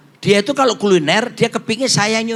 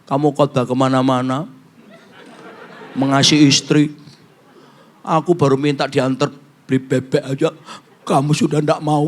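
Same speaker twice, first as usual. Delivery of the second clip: lower, hurt complaint from the wife; wife's tearful reproach; 6 semitones lower than usual. Retold or imitated. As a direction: sound wounded, scolding gently. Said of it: "dia ngomong gini".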